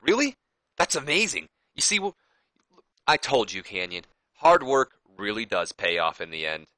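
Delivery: hammed-up joy at the news; thrilled. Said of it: "he was like".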